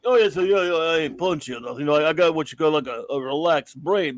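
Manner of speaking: lightly done mumbling Rocky Balboa voice; hint of a slurred Philly boxer; bad Rocky impression. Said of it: "this annoying Rocky stupid voice, really bad Rocky impersonation".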